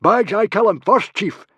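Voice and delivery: high, very loud claim; eager yell. A narrator's reading. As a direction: yell to get first go. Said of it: "yelled Baggy Bum".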